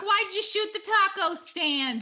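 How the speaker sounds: high, loud exasperated call; loud complaint. Acted. Dahlia yelling at Red Ink so Lizzo hears, loud. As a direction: yell it across the lot. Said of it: "Dahlia says loudly so Lizzo can hear".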